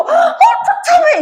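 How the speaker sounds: high, slow, laughing mock line; mock deadpan Gildong. Teacher parodying Gildong after the killing, laughing mock deadpan. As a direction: parody the killer calling it gruesome. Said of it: "길동이도 지가 쳐놓고".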